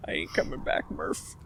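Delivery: breathy whispered movie line. Retold or imitated. Quote fades to whisper.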